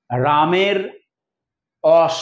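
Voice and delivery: রামের অস with the r dropped, অস said for রস; dialect pronunciation of রস. Shown as a demonstration. Teacher demonstrates a Barendri dialect sound, dropping the r. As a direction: drop the r in রস and say অস. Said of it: "রস হয়ে যায় রামের অস".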